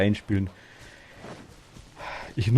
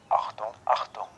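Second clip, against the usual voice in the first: station loudspeaker call; announcement voice; 6 dB quieter than usual. Shown as a demonstration. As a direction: announce it over the tannoy. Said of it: "Ich kann auch eine Durchsage machen".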